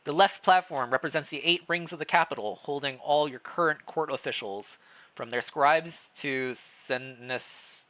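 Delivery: measured storybook narration; story narration. Acted. Player narrating the king's walk through the castle, storytelling. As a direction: read the scene like a novel, drawing them in.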